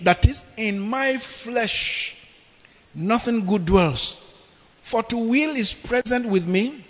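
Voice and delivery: dramatic sermon reading; scripture reading. Acted. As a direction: read the verse like a preacher.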